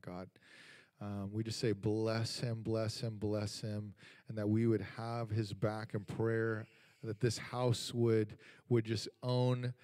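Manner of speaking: earnest spoken prayer over a guest. Acted. Pastor praying a blessing over his roommate in a prayer voice. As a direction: pray it out, steady and devoted.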